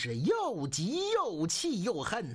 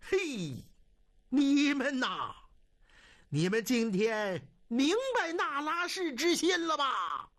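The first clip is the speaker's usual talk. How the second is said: storyteller's indignant, raised-pitch outcry; furious reproach; 5 semitones higher than usual. A narrator's reading. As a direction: reproach fellow captives with theatrical anger. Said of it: "怒气冲冲地对他们说".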